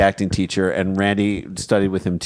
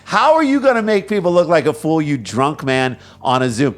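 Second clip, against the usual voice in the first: incredulous; 4 semitones higher, 3 dB louder than usual. Real, not acted. Mock outrage at drunk councilman.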